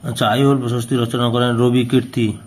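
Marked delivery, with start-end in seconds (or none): none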